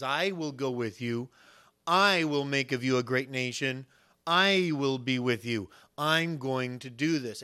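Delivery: slow, weighty declarations leaning on "I"; measured pulpit proclamation of God's promise; emphatic promise as God. Acted. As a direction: stretch and stress each "I" as a solemn vow. Voices God's repeated promises.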